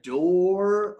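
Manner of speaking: "door" stretched out in imitation of the friend; mock drawn-out "door"; elongated word. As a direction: hold the vowel of "door". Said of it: "he just elongated a four-letter word".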